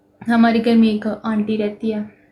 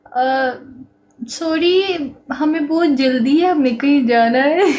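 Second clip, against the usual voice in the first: higher, louder hurried brush-off; mocking the men; 5 semitones higher, 5 dB louder than usual. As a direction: mimic careless men making excuses. Men brushing her off, mocked.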